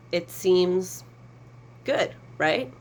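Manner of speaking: dry, sarcastic lift on good; mock-cheerful, clearly sarcastic. Real, not acted. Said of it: "Sarcasm. Total sarcasm".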